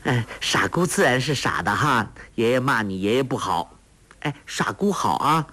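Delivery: a hint of a coaxing smile in the voice; light smiling tone. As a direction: promise sweetly with a smile. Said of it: "黄蓉笑道".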